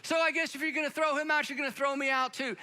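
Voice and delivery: lightly voiced assistant coach standing by his buddy; defiant assistant coach. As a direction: assistant coach daring the umpire to eject him too. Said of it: "this is almost a quote".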